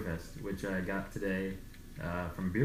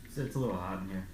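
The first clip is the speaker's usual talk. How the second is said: muffled behind a full face mask; talking through a mask; faster than usual. Real, not acted. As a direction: speak from inside a bunny mask. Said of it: "'cause he's talking through a mask".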